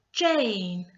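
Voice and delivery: JANE with a long, drawn-out A; long A sound. Shown as a demonstration. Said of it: "give an A sound".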